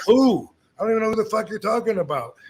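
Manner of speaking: retold angry reply. Heated retold argument with Scott.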